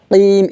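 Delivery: কিম with a firm back-throat q; sounded Q. Shown as a demonstration. Teacher showing the qaf, কিম said as "qiim". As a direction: pop the q of কিম and stretch the vowel. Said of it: "একটু শব্দ করে উচ্চারণ করব".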